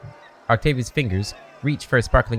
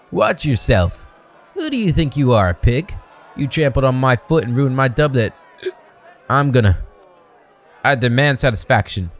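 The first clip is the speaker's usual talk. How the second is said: put-on drunken yelling; 3 semitones higher than usual. Drunk young man yells at the stranger, angry shouting. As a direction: bark at the stranger who bumped you.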